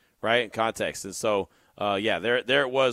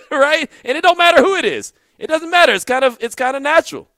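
amused laugh; 12 semitones higher, 8 dB louder than usual. Real, not acted. Laughing, amused at edgy reporters.

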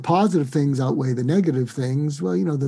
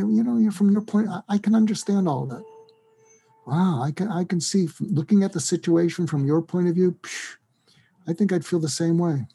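understanding; 4 semitones higher than usual. Shown as a demonstration. Demonstrates validating an upset person.

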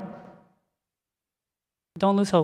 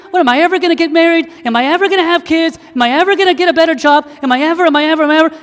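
anxious worrying; 7 semitones higher, 5 dB louder, faster than usual. Acted. Voicing anxious worries about future.

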